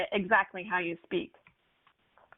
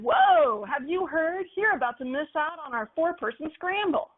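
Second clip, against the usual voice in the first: excited pitch; 5 semitones higher than usual. Shown as a demonstration. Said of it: "Rather than".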